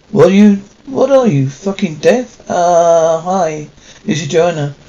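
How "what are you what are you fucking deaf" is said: angry. Acted. Angry woman in dark restroom.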